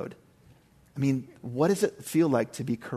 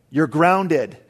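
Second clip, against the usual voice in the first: a stern, louder snap of a dad cornered; mock angry dad; 6 dB louder than usual. Dad snapping back at his kids, mock angry. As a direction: bark it like a dad who lost the argument.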